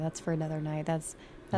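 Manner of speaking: low sultry late-night radio host. Acted. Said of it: "Why are you using deep, sultry voice?".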